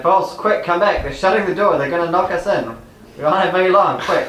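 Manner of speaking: urgently calling a teammate back. Acted. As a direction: call them back in a hurry. Urgently calls a fleeing companion back.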